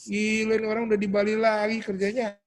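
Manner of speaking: high-pitched mock astonishment; acted-out envious reaction; envious griping. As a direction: exclaim it like a jealous acquaintance. Mock envious reaction to acquaintance's post.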